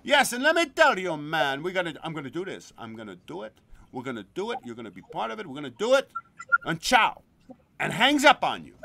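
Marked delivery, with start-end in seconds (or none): 0.0-6.1 loud, rushed hype opening; lightly voiced pumped-up friend; imitating Gino. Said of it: "all of a sudden he would go". 6.6-7.2 loud sudden goodbye; abrupt ciao. Retold or imitated. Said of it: "he would go".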